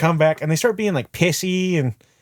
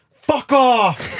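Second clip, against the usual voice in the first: put-on drunk dude; 10 semitones higher than usual. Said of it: "one of the dudes in their group goes".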